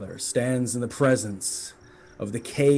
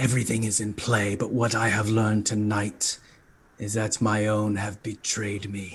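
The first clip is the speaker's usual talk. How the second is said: fiendish, monstrous voice; 2 semitones lower than usual. In a role-play scene, the narrator voices Uncle Gundren in a fiendish devil voice. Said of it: "her fiendish devil voice speaks out".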